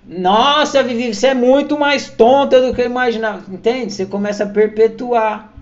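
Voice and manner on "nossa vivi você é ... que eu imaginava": higher, louder scornful jeer; exasperated mock insult, high and loud; mocking exasperation. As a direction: sneer it in mock disbelief.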